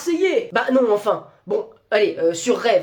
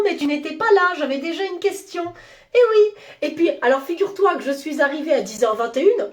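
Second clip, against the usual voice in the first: nosy boss voice; 4 semitones higher than usual. Acted. Nosy boss scolding employee.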